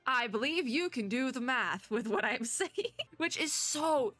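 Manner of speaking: talking through laughter; amused, laughter breaking into the words; can't help laughing while saying it; laughing at absurdity. Real, not acted. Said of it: "I'm laughing 'cause it's absurd".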